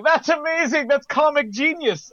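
high, impressed gushing; mock amazement. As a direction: gush like it's brilliant. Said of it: "it wasn't one of those burst out laughing as in".

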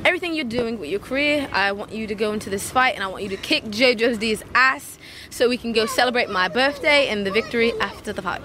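restrained put-on British accent; best British accent. Talking to partner before his fight, British accent. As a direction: speak sincerely in an imitated British accent. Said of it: "twenty seconds of your best British accent".

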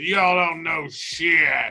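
mock heckler. Mock know-it-all heckler voice.

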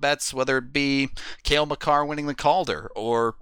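upbeat sponsor ad read. Acted. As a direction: sell it like a radio spot. Reads sponsor ad.

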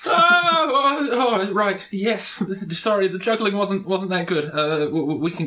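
high, apologetic, fading to a mumble; sheepish juggler. Acted. Juggler snapped out of it by the goblin, sheepish and high. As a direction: come down from the high, embarrassed.

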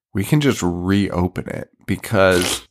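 slow, laughing mid-sentence as she retells it; can't hold back a laugh while quoting Marnie; laughing through the quote. Retold or imitated.

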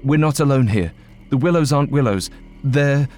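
breathless, rising urgency; urgent. Acted. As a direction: blurt it out in a panic. Frantic warning to Ulf.

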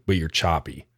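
choppy, breaking-up connection; like a call cutting in and out; glitchy robotic call. Real, not acted. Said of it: "we're experiencing technical difficulties right now".

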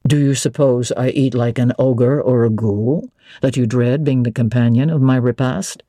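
a hint of a gruff master mocking; lightly voiced Rochester.

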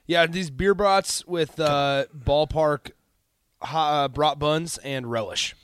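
chewing between words; mouth full. Real, not acted. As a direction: speak through a mouthful. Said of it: "I'm eating my lunch".

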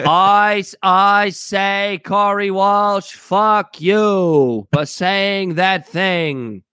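lightly voiced JFK, stretched and deliberate; a hint of old-school Kennedy oratory; JFK impression. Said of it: "that was my best J F K".

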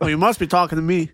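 quick mock New York accent with a laugh. Co-host carrying on quote for laughs, mock New York accent. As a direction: play the New Yorker, half laughing. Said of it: "huge fan of those accents".

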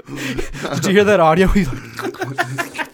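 coughing laugh after a bad swallow; swallowed wrong way. Real, not acted. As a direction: drink went down the wrong pipe. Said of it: "It almost went down the wrong pipe".

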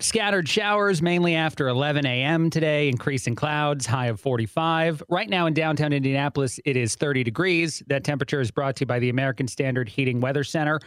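on-air weather forecast read; radio weather read. Real, not acted. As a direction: announce the weather like morning radio. Host reads weather and sponsor.

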